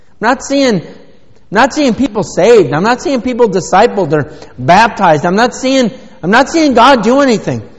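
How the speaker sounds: high, loud litany of complaints; hammed-up frustrated protest; mock complaining. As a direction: play an exasperated complainer, piling it on. Acts out a frustrated believer's complaint.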